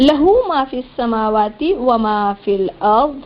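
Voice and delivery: slow, drawn-out chanted recitation; Quran recitation. Shown as a demonstration. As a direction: chant each word long and measured.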